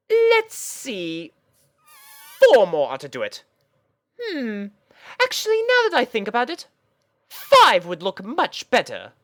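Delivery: high, loud, theatrical posh mare; dramatic fashionista. Acted. Rarity deciding beads on her dress, high loud theatrical voice. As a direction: agonise grandly over beads.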